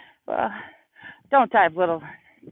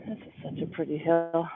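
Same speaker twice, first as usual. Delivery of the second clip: heavy breathing; 5 dB quieter than usual. Real, not acted. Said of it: "Sorry about the heavy breathing".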